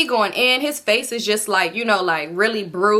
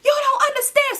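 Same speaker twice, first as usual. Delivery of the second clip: crying plea; 13 semitones higher than usual. Retold or imitated. Peacemaker pleading with Enemy.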